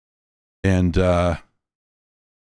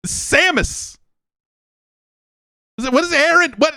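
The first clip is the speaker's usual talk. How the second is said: mock mysterious. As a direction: ham up an eerie, mysterious reveal. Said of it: "come up with something mysterious".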